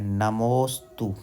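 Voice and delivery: नमोस्तु drawn out slowly, the मो held long; stretched, careful नमोस्तु; teaching pronunciation. Shown as a demonstration. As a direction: model नमोस्तु slowly for students to copy. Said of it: "इस तरह से है".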